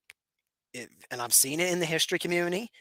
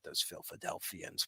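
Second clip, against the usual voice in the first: mock villain greeting; 8 semitones lower, 9 dB quieter than usual. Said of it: "I'm just kidding".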